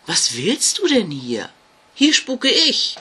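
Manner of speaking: a ghost defending its turf; territorial ghost. Acted. Ghost to Jasmina about its haunting place, territorial.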